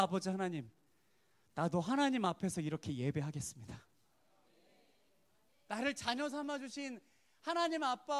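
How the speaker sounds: a father's fervent prayer of thanks to God; heartfelt prayer. Acted. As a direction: pray it out as a confession. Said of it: "제 마음속에 어떤 고백이 생기는 줄".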